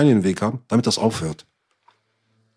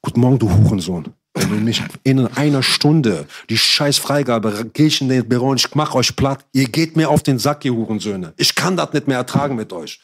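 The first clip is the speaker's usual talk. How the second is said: retold angry rant, firm and emphatic; re-enacted morning tirade with some force; angry ultimatum; 2 semitones higher than usual. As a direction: act out being fed up and threatening.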